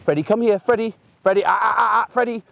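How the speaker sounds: a hint of a dog owner repeating the name over and over; nagging owner. Owner in the park calling their dog, lightly mimicked nagging. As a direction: mildly mimic a frantic owner calling again and again. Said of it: "They're saying".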